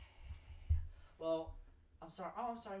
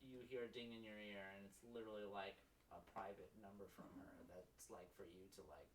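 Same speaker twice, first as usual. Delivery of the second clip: hushed; 7 semitones lower, 8 dB quieter than usual. Acted. GM narrates quiet phone message.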